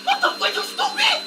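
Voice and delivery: very high-pitched outburst; high, incredulous scolding; exasperated yell. Real, not acted. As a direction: screech it in exasperation. Stuck, angry at no help coming.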